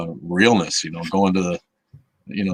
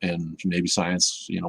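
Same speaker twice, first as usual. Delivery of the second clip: usual speaking voice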